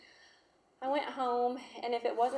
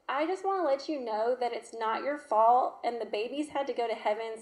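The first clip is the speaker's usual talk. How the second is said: put-on child's voice; 2 semitones higher, 5 dB louder than usual. Daughter voiced consoling mother.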